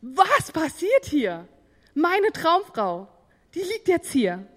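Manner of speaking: langsam, höher und staunend; ungläubig über die Traumfrau staunen, langsam; verblüfftes Denken. Retold or imitated. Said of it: "der dachte". (langsam und höher, verblüfft und ungläubig)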